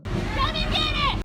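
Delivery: very high, loud shouted farewell; big high-pitched send-off yell; calling out. Real, not acted. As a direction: holler a goodbye in a high voice. Calling out a goodbye.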